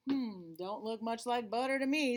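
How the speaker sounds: a different, doubtful critter voice; sceptical Raccoon. Acted. Raccoon looking at the dripping butter, sceptical.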